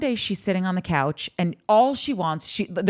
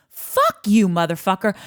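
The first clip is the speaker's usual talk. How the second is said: mock defiant yell; 3 dB louder than usual. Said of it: "finds their voice and she's like".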